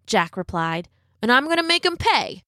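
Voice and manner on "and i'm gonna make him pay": put-on young boy voice. A narrator's reading. Boy answering his mother.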